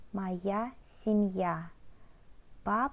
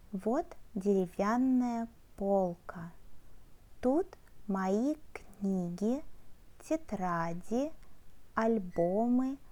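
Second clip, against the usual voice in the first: careful learner-paced reading in Russian; model reading aloud. Shown as a demonstration. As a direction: read phrase by phrase, pausing for learners to follow. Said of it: "show you text and read it".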